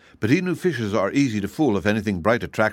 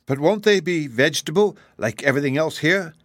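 higher, questioning little cat; kitten voice; 7 semitones higher than usual. A narrator's reading. Kitten questioning the wizard about fish, doubtful kitten voice. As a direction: ask with a niggling doubt.

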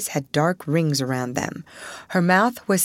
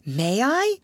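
exclaimed; 7 semitones higher than usual. Acted. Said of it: "exclaimed Sarah".

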